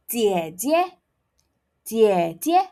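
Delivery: 姐姐 said clearly twice; teacher demo. Shown as a demonstration. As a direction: model 姐姐 for students. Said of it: "is pronounced as".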